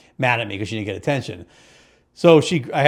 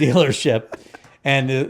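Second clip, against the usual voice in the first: usual speaking voice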